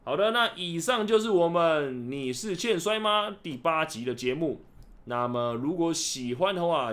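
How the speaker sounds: podcast outro. Acted. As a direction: wrap up the show for listeners. (节目结尾主持人语气)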